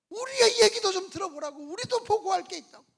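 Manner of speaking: loud, high shout over a commotion; shouted plea. Acted. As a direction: demand to be heard, at full volume. Two spies shouting over a commotion.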